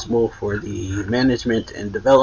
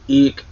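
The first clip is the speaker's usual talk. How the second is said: a short, high, louder mock shriek of fright; mock eek scream; 5 semitones higher, 7 dB louder than usual. Retelling how the student yelped when shot at, mock shriek. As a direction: yelp it like a startled kid. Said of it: "or he, like, screams pretty much".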